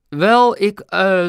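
high, loud, halting start; stammering. A narrator's reading. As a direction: stumble loudly for an answer when caught out. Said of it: "stamelde hij". (hoog, luid gestamel)

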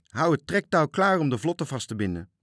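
loud, high shouted command; calling out orders. A narrator's reading. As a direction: shout orders across the deck. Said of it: "riep hij".

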